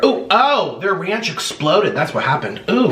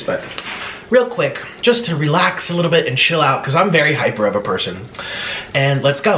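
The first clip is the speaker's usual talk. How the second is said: guided breathing; 2 semitones lower than usual. Acted. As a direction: talk them calmly through each breath. Leads breathing exercise.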